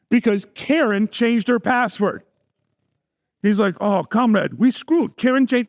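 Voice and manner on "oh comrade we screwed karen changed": lightly hammed-up Russian accent; terrible Russian accent. Hacker in Moscow lamenting a password change, in a bad Russian accent. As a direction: do a bad mock-Russian comrade voice. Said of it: "that's my terrible Russian accent".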